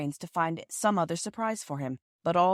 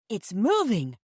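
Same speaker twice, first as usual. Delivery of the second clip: excited cry; 4 semitones higher, 4 dB louder, slower than usual. Acted. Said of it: "cried Bobby".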